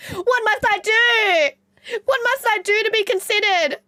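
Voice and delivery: high, loud, very slow fake sob; hammed-up tearful whine; mock crying. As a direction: wail like a dramatic beggar.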